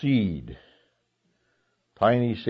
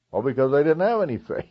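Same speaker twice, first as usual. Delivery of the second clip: quick, chuckling through the line; laughing; 5 semitones higher, much faster than usual. Real, not acted. Preacher amused by the faithless disciples, laughing. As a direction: laugh as you say it, fast.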